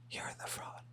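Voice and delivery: menacing whisper; mock dramatic whisper; whispered dub. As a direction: whisper the accusation. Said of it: "I'm gonna do the A D R".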